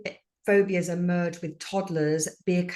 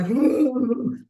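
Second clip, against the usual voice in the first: high-pitched mock cry; 6 semitones higher, 6 dB louder than usual. Shown as a demonstration. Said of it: "You can't have an ugly cry".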